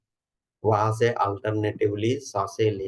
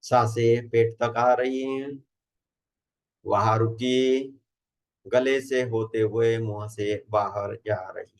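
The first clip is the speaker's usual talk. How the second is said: measured instructions with long pauses between phrases; guided meditation. Acted. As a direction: guide a group into relaxation, unhurried.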